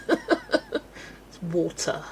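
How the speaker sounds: laughing correction. Retold or imitated. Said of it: "And I'd just be like".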